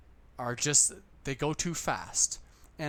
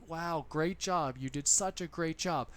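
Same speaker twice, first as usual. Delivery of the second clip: encouraging praise. Shown as a demonstration. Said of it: "I'll say".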